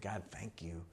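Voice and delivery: low, soft retold prayer; quiet prayer. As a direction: recall a private prayer, hushed and low. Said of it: "I just said a prayer".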